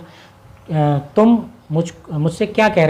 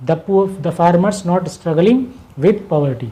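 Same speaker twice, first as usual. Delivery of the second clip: slow dictation; much slower than usual. Shown as a demonstration. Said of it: "teacher repeats translation".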